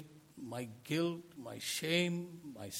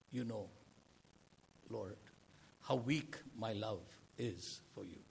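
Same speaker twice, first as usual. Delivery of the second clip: much softer, humbled admission; humble confession; 4 semitones lower, 8 dB quieter than usual. Acted. Peter confessing weak love to Jesus, hushed and humble. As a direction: barely say it, ashamed before the Lord.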